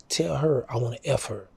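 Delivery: unvoiced secret request; whispered bold come-on. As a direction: whisper it into her ear. Whispering to the girl's friend.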